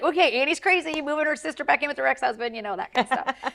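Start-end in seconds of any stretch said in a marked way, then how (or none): 0.0-2.5 higher, quick voicing of the doubters; mock incredulous onlookers. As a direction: imitate people calling her crazy. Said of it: "it's like".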